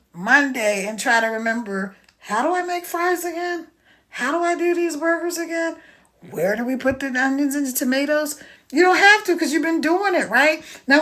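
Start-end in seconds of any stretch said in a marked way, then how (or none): 2.2-8.4 hint of a clueless employee; confused forgetful worker. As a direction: play someone trying to remember a basic task.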